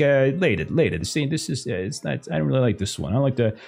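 gruff mobster brushing off, then snapping at the band; lazy boss waving them off. Acted. GM voicing mobster boss Max.

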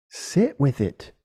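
slowly, calmly advising; slow and sincere. Shown as a demonstration. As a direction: let it sink in, unhurried. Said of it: "Look at it".

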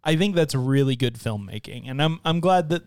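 talking while crunching chips; eating chips. Real, not acted. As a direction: mouth half full of chips. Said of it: "Sorry, we're all eating chips".

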